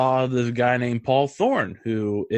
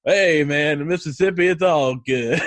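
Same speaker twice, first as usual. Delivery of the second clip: imitated Mississippi musician; 2 semitones higher, 3 dB louder than usual. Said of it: "And he goes".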